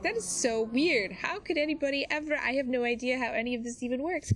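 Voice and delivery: putting on a puzzled ditz act; playing the ditz. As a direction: play clueless, stretch the start, lift the pitch. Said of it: "I play the ditz card fairly often".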